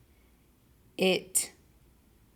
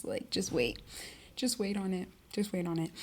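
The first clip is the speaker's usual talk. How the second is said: teasing hush; 7 dB quieter than usual. Real, not acted. Teasing promise, dropped voice.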